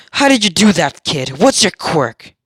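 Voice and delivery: villain voice. Acted. Sludge villain voiced, taunting.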